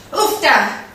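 a small strained "Oofta" as if lifting; lifting grunt word. Shown as a demonstration. Showing the class how she says it lifting, mild strain. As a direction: say "Oofta" like hoisting something heavy. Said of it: "like this".

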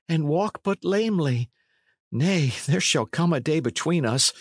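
aggrieved lad, high-pitched; John Matcham. Acted. Plays lad protesting his abduction.

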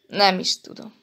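long high "Hát", then dropping; dithering, unsure; uncertain. A narrator's reading. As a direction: hesitate with a drawn-out high first word. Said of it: "Bizonytalankodott aztán".

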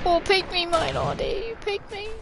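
shouting at the enemy; raging gamer. Real, not acted. Gamer taunting enemy mid-fight.

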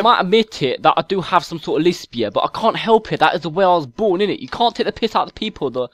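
exaggerated London chav accent, mouthy; whiny London chav accent, picking a fight; put-on London chav accent. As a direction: play a stroppy London chav kid on a game mic. Chav troll persona.

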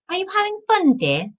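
high-pitched, gentle wifely enquiry; gentle question. A narrator's reading. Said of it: "she asked gently".

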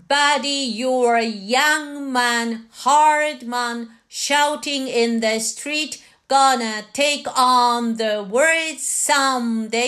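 measured read-through without singing; reading practice. Shown as a demonstration. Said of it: "はじめは読みの練習".

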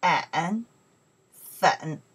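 粉 said low with a dipping third tone. Shown as a demonstration. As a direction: demonstrate 粉 slowly, voice dropping low then lifting. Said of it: "third tones".

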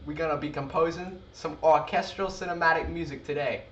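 lightly voiced hood accent intro; casual street-style hood accent greeting. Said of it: "Could you imagine, like".

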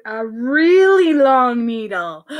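REALLY LONG stretched out slowly; drawn-out emphasis. A narrator's reading. Building up needle size.

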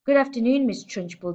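high sing-song class chorus; chirruped chorus. A narrator's reading. Nervous class chirruping back at the headmistress. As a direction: chirp it back like nervous children. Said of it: "they chirruped".

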